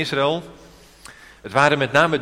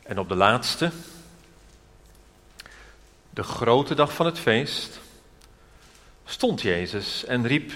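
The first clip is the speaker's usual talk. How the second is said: scripture reading; 3 dB quieter than usual. Real, not acted. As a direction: read the verses out solemnly, with pauses between phrases. Reads scripture aloud to congregation. (plechtige, bedachtzame Bijbellezing)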